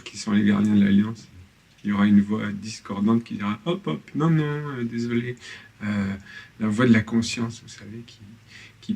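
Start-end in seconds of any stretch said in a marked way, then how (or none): 3.6-5.4 higher-pitched interrupting "no, no"; mild acted objection. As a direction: cut in as the dissenting voice, lightly. Voicing the dissenting voice's objection. (objection jouée, voix plus haute)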